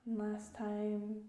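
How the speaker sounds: calm, measured meditation guide; unhurried instruction, phrase by phrase; guided meditation. Real, not acted. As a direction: guide listeners gently with long pauses.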